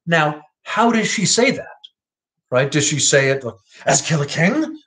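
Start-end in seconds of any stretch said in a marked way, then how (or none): 3.8-4.8 pointed, meaningful reading of king; a knowing hint in As kill a king. Shown as a demonstration. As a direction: say As kill a king as if she knows. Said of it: "Like, you know, he knows?".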